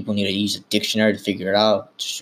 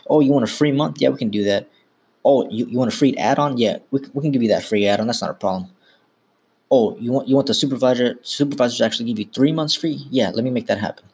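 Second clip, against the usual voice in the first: eager yes-man salesman; 3 semitones higher than usual. Retold or imitated. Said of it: "The sales prostitute does anything to get the sale".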